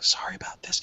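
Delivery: soft apologetic whisper. Acted. Jacob whispers an apology to Nadia. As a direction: breathe the apology, barely voiced. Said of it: "he's gonna whisper to Nadia".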